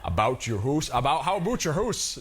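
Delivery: imitated Canadian "aboot the hoose" vowels; Canadian accent. Shown as a demonstration. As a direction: say it like a Canadian, rounded OO in house. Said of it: "some of the ways they speak".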